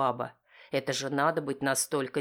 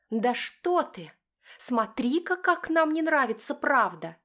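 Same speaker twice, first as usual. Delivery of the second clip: high, louder spiteful wife; spitting wife; 12 semitones higher, 4 dB louder, slower than usual. Acted. Wife spitting back at husband, high and spiteful. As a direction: spit it out as the wife. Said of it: "озлобленно выплёвывает".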